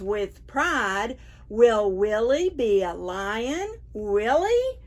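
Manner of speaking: lively, sing-song picture-book reading; reading to children. Acted. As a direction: read it to a room of preschoolers, big and bright. Reads picture book to preschoolers.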